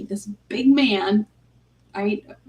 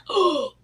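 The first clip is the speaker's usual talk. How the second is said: imitated shocked gasp; 7 semitones higher than usual. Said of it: "One was literally mortified".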